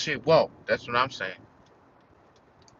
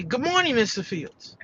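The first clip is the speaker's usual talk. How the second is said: sing-song greeting; 7 semitones higher than usual. Retold or imitated. Coworkers greeting him sweetly.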